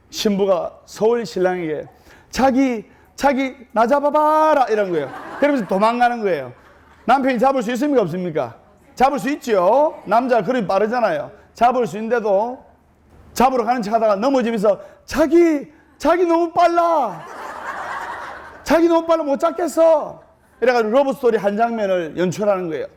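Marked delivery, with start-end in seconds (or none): 2.3-4.6 coy higher call, a playful taunt; teasing bride. Retold or imitated. Seoul bride teasing her groom on the beach, coy higher call. 15.0-20.2 mock whiny groom. Seoul groom pretending he can't catch his bride, hammed-up high whine. Groom fakes falling in love-story chase.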